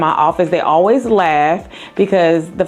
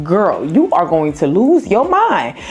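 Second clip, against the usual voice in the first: imitating an uptight mom's rising panic, pitched much higher; a playful mock of a nervous mother fussing over her kid; mock panicking mom; 6 semitones higher than usual. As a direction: ham up the fretful playground mom. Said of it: "And I was like".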